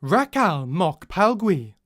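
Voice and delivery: slow, even synthesized voice; words spaced like a machine; computer voice. Shown as a demonstration. Trying out the computer voice for the book. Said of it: "Computer voice".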